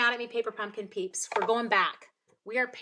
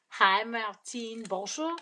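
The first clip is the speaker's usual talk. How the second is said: drawn-out greeting in a French accent; 3 dB louder, much slower than usual. Shown as a demonstration. Crafter greeting viewer Martine by name, French accent. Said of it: "I use an accent every time I say your name".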